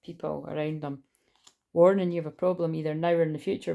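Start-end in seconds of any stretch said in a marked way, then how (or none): 1.7-3.7 warning voice. Pretend. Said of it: "that's me warning".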